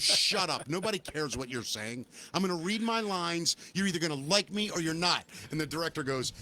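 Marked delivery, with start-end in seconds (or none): 0.0-5.2 a touch of retold defiance; mildly cocky, firm telling-off; defiant kid. Young actor talking back to the director, defiant. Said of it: "very defiant".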